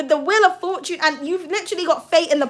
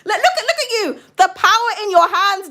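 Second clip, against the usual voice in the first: excited laughing gush; 6 semitones higher, 4 dB louder than usual. Real, not acted. Reader gushing over viewer's power.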